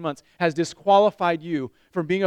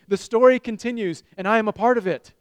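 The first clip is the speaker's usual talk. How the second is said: louder, higher, rallying the room; loud call-and-response; 4 semitones higher, 4 dB louder than usual. Real, not acted. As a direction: lead the congregation loudly. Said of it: "Can you say it with me".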